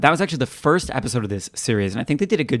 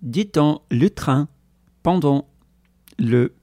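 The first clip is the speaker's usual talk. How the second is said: French accent; 3 semitones higher, slower than usual. Shown as a demonstration. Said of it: "do that in French".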